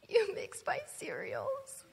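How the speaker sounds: put-on high, slow, whiny child's complaint. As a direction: pout it out like an upset five-year-old. Child Lilia's upset retort.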